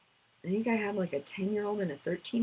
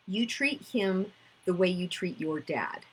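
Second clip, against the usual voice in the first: slowed right down, each word laid out; slow deliberate repeat. Shown as a demonstration. Therapist repeats the child's words for listeners, slow and deliberate. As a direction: repeat it slowly so it sinks in. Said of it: "I'm gonna repeat that".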